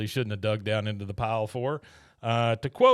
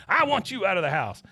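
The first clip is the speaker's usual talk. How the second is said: Liz; 7 semitones higher, 3 dB louder than usual. Retold or imitated. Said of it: "you hear Liz again".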